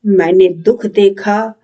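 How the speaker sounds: measured declamation with lifted phrases and falling ends; lightly theatrical, resolute recitation with long pauses; dramatic monologue. Acted. Patriotic, thoughtful youth affirms his humanity, dramatic monologue.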